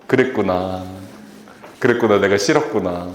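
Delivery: low, gentle acknowledgement; calm soothing reply. Retold or imitated. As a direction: soothe someone who's cursing at you. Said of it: "누가 제 욕하면 이래요".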